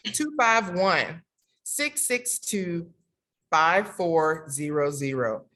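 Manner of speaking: slow ad-style number read; infomercial voice. Pretend. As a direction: announce it like a commercial. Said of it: "that's my infomercial vo-, voice".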